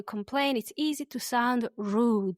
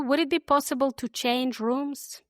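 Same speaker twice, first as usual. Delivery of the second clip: said slowly; 3 semitones higher than usual. Shown as a demonstration. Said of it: "I'll say them slowly".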